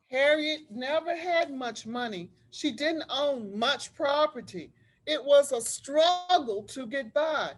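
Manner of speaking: put-on lively read-aloud voice for children; story narration. A narrator's reading. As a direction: tell it like a storybook to a class. Teacher reads picture book aloud.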